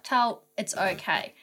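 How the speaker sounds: slow, soft, calming tone; reassuring. Retold or imitated. Calming Tal at the hire car, reassuring. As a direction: gently settle a stressed friend. Friend reassuring her panicking partner.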